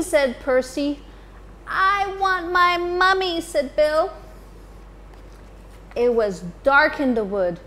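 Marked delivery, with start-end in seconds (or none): 1.7-3.4 a hint of baby owl voice. Baby Bill cries for mummy.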